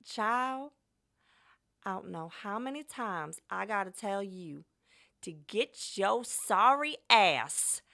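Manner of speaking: scolding Southern grandma, slow and loud at end. Pretend. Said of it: "Southern black grandma who hates her grandkids impression".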